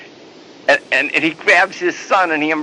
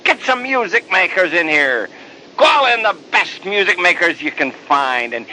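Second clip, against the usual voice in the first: joyful call to the servants, rising louder toward the end; 3 semitones higher than usual. Acted. Father calls to the servants, joyful and loud. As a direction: shout out the orders like a father throwing a party. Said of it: "the father's loud voice calling out".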